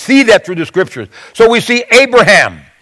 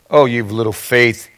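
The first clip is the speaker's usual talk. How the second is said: gentle rebuke; 9 semitones lower, 6 dB quieter than usual. Retold or imitated. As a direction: lower and softer, a gentle chiding. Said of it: "he said".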